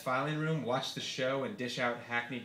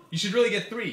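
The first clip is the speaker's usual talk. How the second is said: higher, louder, egging-on friend; buddy's voice; 7 semitones higher, 7 dB louder than usual. Retold or imitated. Dealer friend urging the author to buy more, higher. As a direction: push him to buy more. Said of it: "he texted back".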